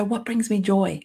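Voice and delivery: ordinary delivery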